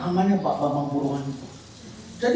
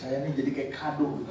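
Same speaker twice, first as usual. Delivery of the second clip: laughing; 4 semitones lower, 5 dB quieter than usual. Real, not acted. Still laughing at the story.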